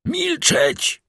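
abrupt high cry to silence him; Albert silencing the banker; hollow command. A narrator's reading. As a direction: cut him off with one hard word. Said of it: "powiedział głucho Albert".

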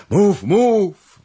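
high, loud command to speak; urgent shout. Acted. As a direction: call out impatiently. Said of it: "wołał Zagloba". (niecierpliwe wołanie)

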